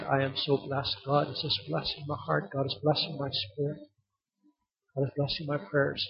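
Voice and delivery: quietly retelling a friend's gratitude; hushed testimony. Retold or imitated. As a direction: quote him very softly, sincerely. Retold friend's heartfelt testimony.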